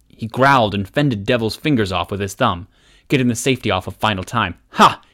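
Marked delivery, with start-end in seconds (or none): 4.7-5.0 high, loud gleeful ha; triumphant crow. Acted. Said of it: "he crowed in triumph".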